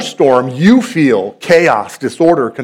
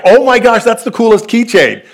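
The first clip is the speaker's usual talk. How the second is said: put-on excited teen; 8 semitones higher than usual. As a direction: squeal over a cool gift. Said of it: "He's like".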